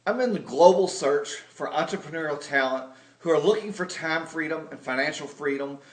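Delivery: slick corporate jargon spiel; jargon sales pitch. Retold or imitated. Pitching sister in stiff corporate jargon, lightly voiced. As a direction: rattle off the buzzwords like a pitchman. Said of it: "Instead, I might say".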